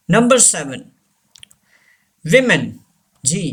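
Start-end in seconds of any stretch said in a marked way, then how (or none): 2.2-2.6 "women" said as wim-en; plural pronunciation. Shown as a demonstration. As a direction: say "women" with a short i first. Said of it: "plural form में हम इसे विमेन". ("women" को "विमेन" बोलें)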